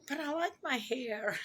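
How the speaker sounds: laughing through the words. Retold or imitated. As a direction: chuckle it out, amused. Amused quote of own thought.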